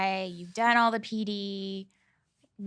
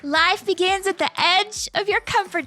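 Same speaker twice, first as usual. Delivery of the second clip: louder, higher and proud, finishing the line; triumphant catchphrase; 10 semitones higher, 6 dB louder than usual. Real, not acted. Cohost finishes the host's sign-off motto, loud and proud. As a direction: deliver the motto with a flourish. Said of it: "I said it right".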